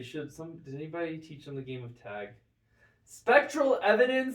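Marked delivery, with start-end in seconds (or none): 3.0-4.4 slow, high, loud disbelief; incredulous. Real, not acted. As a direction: drag it out in total disbelief. Incredulous at witch-trial evidence.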